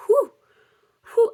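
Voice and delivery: short blown-out whew; acted exhale of relief; relieved whew. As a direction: puff out a sigh of relief. Relieved exhale after stinging stops.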